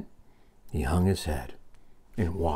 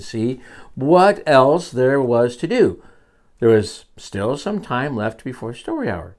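story narration; 4 semitones higher, 6 dB louder than usual. Acted. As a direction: read it with big swoops for a child. Reads story to child.

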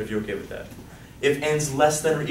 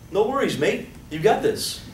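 put-on light Australian accent, mate; a quick mock Australian cheer; a playful Australian accent, cheering the class on; 7 semitones higher than usual. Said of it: "That's Australian, by the way. Did you like my accent?".

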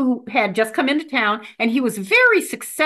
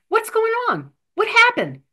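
put-on 1 kid brother voice; 10 semitones higher than usual. Older brother asks the boy.

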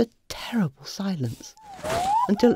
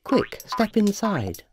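slow, stretched reading of Quick, step inside; slow and drawn out; 3 semitones higher, slower than usual. Shown as a demonstration. Narrator trying the notice one way, slowly. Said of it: "Or was it".

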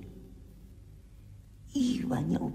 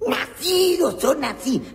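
voz aguda de personaje; 9 dB louder, slower than usual. Acted. El Sofá responde.

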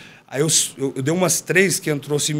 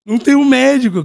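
higher and louder, incredulous; outraged exclamation; 9 semitones higher, 8 dB louder than usual. Real, not acted. Telling his friend there was no doctor, loud incredulous outburst. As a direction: blurt it out in disbelief.

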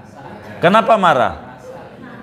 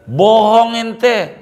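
mock indignant retort; 8 semitones higher, 4 dB louder, much slower than usual. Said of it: "kan begitu".

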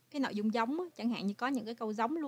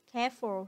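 careful with the stress on CARE; stress on first syllable. Shown as a demonstration. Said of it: "là nhấn vần một".

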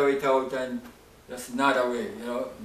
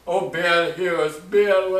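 mock crying plea; much slower than usual. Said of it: "were crying, crying".

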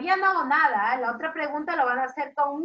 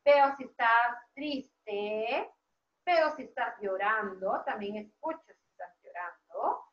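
a touch of sorrow, fading softer; mild mock sadness; 5 semitones lower, 3 dB quieter than usual. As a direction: lightly act out sadness for little children. Names sad states to children.

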